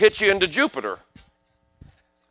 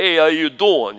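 lightly voiced New York Italian greeting; a hint of New York Italian street talk; New York Italian guy. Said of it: "guys would talk like".

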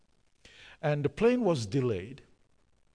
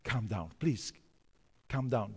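peacemaker; 4 semitones lower, 5 dB quieter than usual. Retold or imitated. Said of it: "So I'm trying to do peacemaker".

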